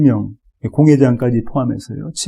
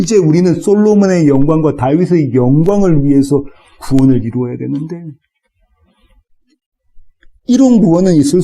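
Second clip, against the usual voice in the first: bristling at a salvation for outsiders, pitched up; indignant Hellenist Jews. Acted. Preacher voicing Hellenist Jews rejecting the gospel, indignant. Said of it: "헬라파 유대인들이 가졌던 마음입니다".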